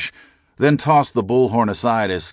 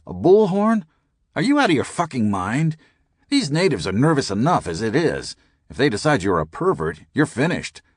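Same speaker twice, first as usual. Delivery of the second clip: incredulous outburst; 6 semitones higher than usual. A narrator's reading. Skinner scolds the narrator about the bullhorn, high and incredulous. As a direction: blow up at him in disbelief.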